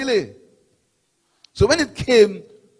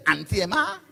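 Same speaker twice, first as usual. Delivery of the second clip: mimicked disgust, pitch swooping up; scornful; 3 semitones higher than usual. Party speaker repeats the rival MP's words to the crowd, scornful. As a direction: imitate a disdainful, disbelieving question. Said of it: "Scornful and disgusting. That's how he is".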